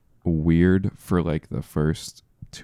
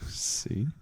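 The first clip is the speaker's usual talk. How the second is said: cartoon voice; 2 semitones higher, 13 dB quieter than usual. Quotes the drunk cartoon character.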